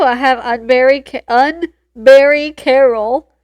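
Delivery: talking with nose plugged. Real, not acted. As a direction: say it while pinching your nose shut. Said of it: "It's hard to say with your nose plugged".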